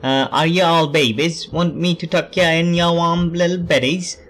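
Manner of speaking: badly faked Scottish accent; amateur mock-Scottish, teasing; attempted Scottish accent. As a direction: have a shaky go at a Scottish accent. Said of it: "why am I doing the Scottish accent".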